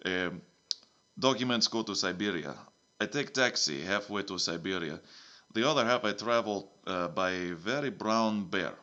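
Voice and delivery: lightly put-on Russian accent, broken English; a hint of Russian accent, dropping the articles; a mild mock Russian accent. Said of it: "it's a Russian accent now".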